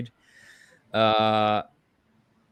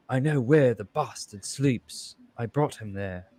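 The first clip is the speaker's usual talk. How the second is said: imitating bad Dutch accent. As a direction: mimic a clumsy Dutch accent. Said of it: "that terrible accent".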